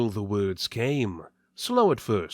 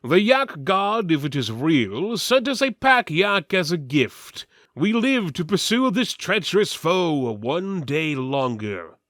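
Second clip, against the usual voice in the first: gruff retort; 5 semitones higher, 4 dB louder than usual. Acted. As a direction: stand your ground. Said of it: "said Weltiver".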